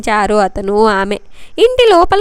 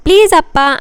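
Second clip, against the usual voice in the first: a lightly voiced plea; pleading; 6 semitones higher, 4 dB louder than usual. A narrator's reading. Daughter pleads with her father, mild pitiful plea. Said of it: "అని అంది దీనంగా".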